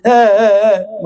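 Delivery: mock child's whimper, put on; hammed-up pretend sobbing; fake crying. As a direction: whine like a child faking tears. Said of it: "झूठा झूठा नाटक है".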